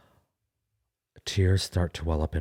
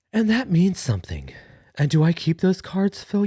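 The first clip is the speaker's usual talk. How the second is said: emotional; 11 semitones higher, 4 dB louder than usual. Real, not acted.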